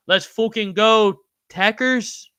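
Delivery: hype cheer. Real, not acted. Hyping a viewer in chat.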